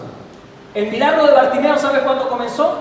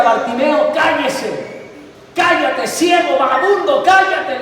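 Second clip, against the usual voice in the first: crowd yelling; 4 semitones higher, slower than usual. Acted. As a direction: shout him down like a hostile crowd. Crowd voiced silencing Bartimeo. (la multitud le grita a Bartimeo que se calle)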